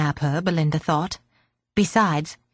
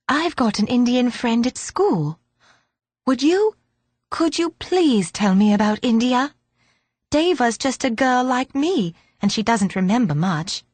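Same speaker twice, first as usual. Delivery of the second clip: put-on higher, pleading little girl; eager girl; 4 semitones higher than usual. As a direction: ask eagerly like a child.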